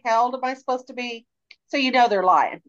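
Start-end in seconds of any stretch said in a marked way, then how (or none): 0.0-1.3 higher-pitched imitation of a coached kid; lightly voiced child, pitched up; child asking parent. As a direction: play a kid checking with a parent. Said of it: "look at their parent like".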